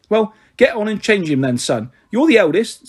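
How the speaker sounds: a lightly voiced, fond, gossipy mother rattling on; teasing her son as a warm-hearted mum, quick and bright; chatty cockney mother. Mrs Chubb ordering.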